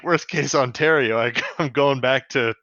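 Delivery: a light Canadian guy voice; hint of a Canadian accent. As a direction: do it as a laid-back Canadian dude. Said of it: "my Canadian voice guy".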